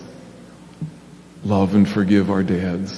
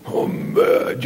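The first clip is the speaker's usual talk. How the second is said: whispered little puppet grumble; a sulky puppet, voiceless. Acted. Puppet Big Al telling the pastor he's mad, whispered.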